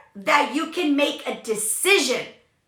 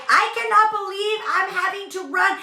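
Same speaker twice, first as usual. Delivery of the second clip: mock annoyed; 5 semitones higher than usual. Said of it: "I was freaking pissed".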